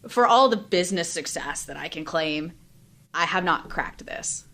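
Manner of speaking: a real catch in the voice, trying to stay steady; emotional, voice catching. Real, not acted. Admitting a private struggle to the host, near tears. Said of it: "I'm getting a little emotional".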